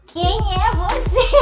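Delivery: put-on high, slow drunken question; a lighter replay of the drunken "Quem é você?"; drunk woman. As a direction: squint and drawl it out like you're tipsy. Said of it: "E eu olhava assim".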